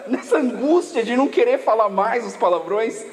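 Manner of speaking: ordinary delivery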